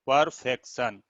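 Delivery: परफेक्शन in three distinct beats; split into syllables. Shown as a demonstration. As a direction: lightly separate पर, फेक, शन in परफेक्शन. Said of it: "कितने स्वर का उच्चारण". (परफेक्शन को पर-फेक-शन तीन हिस्सों में बोलना)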